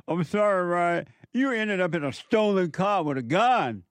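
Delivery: sarcastic imitation of a sobbing mom; mocking the mother. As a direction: ham up a tearful apology.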